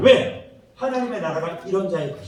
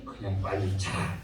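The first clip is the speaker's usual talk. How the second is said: much lower, softer, slow reply; resigned wife; 12 semitones lower, 9 dB quieter, slower than usual. Pretend. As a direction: drop it low and slow, giving up. 아내의 체념한 대답. (낮고 느리게 체념한 말투)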